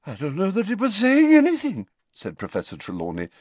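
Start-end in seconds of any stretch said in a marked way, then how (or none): 0.1-1.9 lofty, mystical lady seer, higher; an eccentric old prophetess recounting; dreamy seer. A narrator's reading. Trelawney voice.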